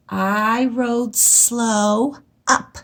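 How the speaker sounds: stretched out word by word as she writes; slow dictation. Shown as a demonstration. Teacher sounds out her sentence while writing for the class. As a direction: say it slowly, one word per stroke. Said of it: "teacher writes sentence".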